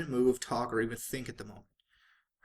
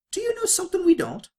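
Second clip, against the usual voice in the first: much higher and louder, pleading; pressing question; 10 dB louder than usual. Acted. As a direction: demand the secret, rising in alarm. Rarity presses Pinkie for answer.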